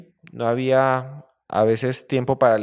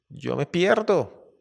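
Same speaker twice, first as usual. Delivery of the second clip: slow dramatic exit; 6 semitones higher, much slower than usual. Acted. Lion decides to flee.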